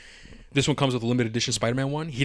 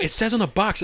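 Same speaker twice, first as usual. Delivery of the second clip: mock sister; 9 semitones higher than usual. Mimicking sister's insistence.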